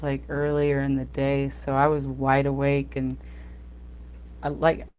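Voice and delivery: shaky voice from the cold; shivering. Real, not acted. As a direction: talk while shivering with cold. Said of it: "I'm shivering right now 'cause I'm so cold".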